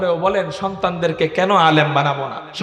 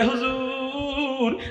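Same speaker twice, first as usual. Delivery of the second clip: respectful rickshaw puller; 4 semitones higher, 5 dB quieter, much slower than usual. Retold or imitated. Rickshaw puller answers cleric respectfully.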